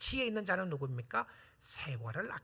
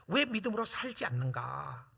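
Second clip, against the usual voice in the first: ordinary talk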